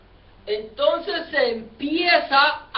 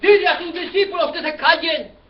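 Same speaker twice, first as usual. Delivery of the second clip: raised, loud acted order; priests' demand; 3 semitones higher, 4 dB louder than usual. Priests telling Jesus to silence his disciples, loud acted demand. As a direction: call out a sharp complaint to the teacher. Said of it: "los sacerdotes le dicen".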